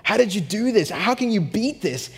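raving to the camp director Jonathan, high and giddy; going crazy. Retold or imitated. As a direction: gush at your friend in disbelief. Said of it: "And I'm going crazy".

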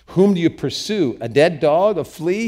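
high, loud rhetorical question; impassioned questioning; incredulous protest. Acted. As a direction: challenge him in disbelief. David protesting to Saul.

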